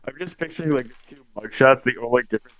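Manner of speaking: choppy, dropping-out mic; breaking up over a bad line; scrambled voice. Real, not acted. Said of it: "Your mic is cutting out".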